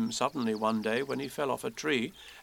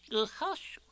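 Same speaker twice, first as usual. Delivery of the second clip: whispered hush; 10 semitones higher, 5 dB quieter than usual. A narrator's reading. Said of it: "said Owl to Eeyore".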